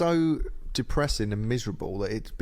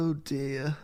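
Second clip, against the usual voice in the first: sighing voice; 2 semitones higher, 4 dB quieter than usual. Shown as a demonstration. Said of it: "sort of sighing voice".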